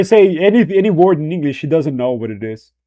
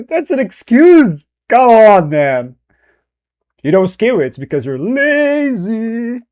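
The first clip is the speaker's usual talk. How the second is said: laughing rant; 6 semitones higher, 4 dB louder than usual. Real, not acted.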